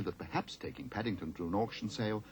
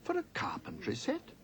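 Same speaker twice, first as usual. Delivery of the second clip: squeak. A narrator's reading. Shocked follow-up to price.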